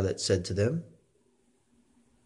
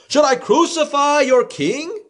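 higher incredulous question; Pilate asking; 12 semitones higher than usual. A narrator's reading. Pilate to the crowd, higher and incredulous. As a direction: ask it as a challenge.

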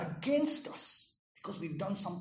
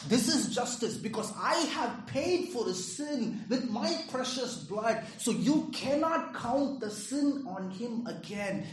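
firm demand; 4 semitones higher, 4 dB louder than usual. Retold or imitated. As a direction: demand justice before the judge with weight. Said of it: "And he's saying".

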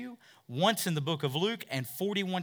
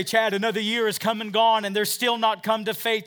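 raised, louder voice of a weary believer; discouraged churchgoer; 7 semitones higher, 10 dB louder than usual. Retold or imitated. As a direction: complain to the pastor with a higher, louder voice. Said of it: "you say".

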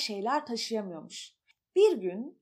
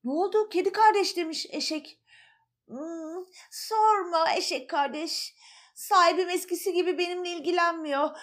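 higher lightly voiced cat, a touch sad; voiced animals; 3 semitones higher than usual. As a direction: play the lazy sad cat. (hafifçe tiz kedi sesi)

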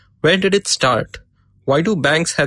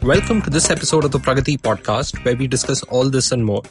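sore throat and stuffy nose; talking through a head cold; blocked nose. Real, not acted. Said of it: "I'm recording this with a sore throat and a blocked nose".

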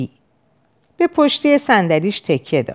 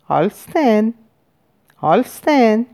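gentle voice; 3 semitones higher, slower than usual. A narrator's reading. Therapist calling to his silent patient with closed eyes, gently. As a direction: call the name gently, with a pause between. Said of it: "با صدای ملایمی گفت".

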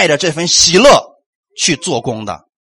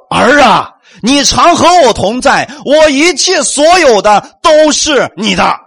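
slow, louder fatherly declaration; proclaiming father; 6 semitones higher, 4 dB louder, slower than usual. Acted. Preacher voicing the father to his elder son, slow and loud. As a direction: announce it slowly and fully, like a father claiming his son.

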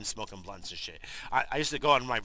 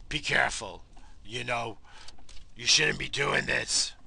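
mock cop lecture; 2 semitones higher, 5 dB louder than usual. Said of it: "lecturing us".

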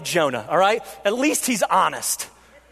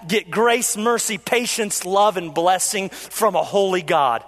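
bitter despair; 2 semitones lower than usual. Retold or imitated. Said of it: "what he says is basically this".

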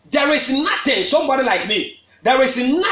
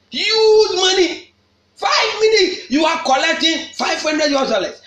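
outraged preacher's shout; 5 semitones higher than usual. Real, not acted. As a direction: shout the price in disbelief. Preacher mocking the hospital bill.

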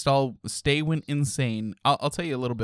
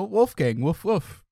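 call and response; 8 semitones higher, slower than usual. Shown as a demonstration. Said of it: "So I say Wolfgang, you say woof, woof".

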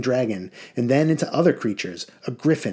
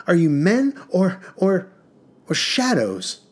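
impassioned plea; 2 semitones higher than usual. Acted. Prince's impassioned outburst.

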